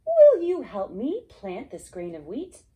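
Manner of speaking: hen asking. Acted. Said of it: "She asked the duck".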